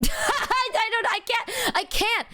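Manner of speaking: high, helpless laughing words; cracking up mid-sentence; real laughter. Real, not acted. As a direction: barely get it out through laughter. Cracks up at own story.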